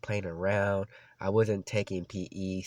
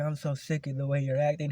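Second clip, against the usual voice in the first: higher, fed-up mock yell; retold yelling teacher; 6 semitones higher than usual. Fed-up PE teacher telling off his student, retold yell. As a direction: imitate an exasperated coach. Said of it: "apologize for about yelling at you".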